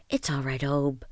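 soft, gentle reassurance; soft and reassuring. Acted. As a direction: comfort him quietly. Comforting ashamed old man.

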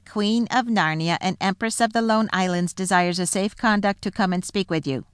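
lightly voiced dwarf messenger; a hint of a formal herald. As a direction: deliver a formal proclamation for the queen. Dwarf delivers a message.

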